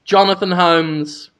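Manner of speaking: slow, grave headstone inscription; solemn epitaph reading. Pretend. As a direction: read it like carved on a tombstone. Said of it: "just have that engraved".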